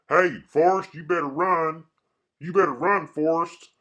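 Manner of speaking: high, loud mock holler; calling out. Quoting someone urging Forrest to run, high holler.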